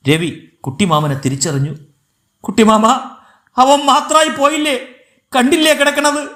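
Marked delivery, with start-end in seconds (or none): 2.4-6.3 high, plaintive acted cry; grief-stricken wail. A narrator's reading. Bereaved brother to his uncle, grief-stricken wail. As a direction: wail it in a raised pitch.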